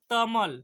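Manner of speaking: तमल said with a t where the k of कमल belongs; child's substitution. Shown as a demonstration. Teacher imitating a child saying तमल for कमल. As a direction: say तमल, swapping the k sound for a t. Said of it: "प्रतिस्थापन कर देता है".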